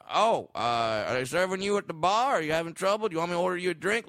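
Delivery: a hint of a helpful star's voice; Dave Chappelle. Comedian offering to order a drink, loose impression. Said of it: "do a terrible Dave Chappelle impression".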